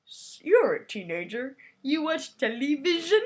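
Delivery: can barely get the words out for laughing; quoting the movie line while laughing; quoting through laughter. Retold or imitated. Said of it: "and he's like".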